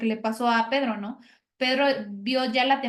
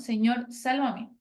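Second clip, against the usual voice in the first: slow prayer; slower than usual. Shown as a demonstration. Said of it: "es lo que nosotros debemos de hacer".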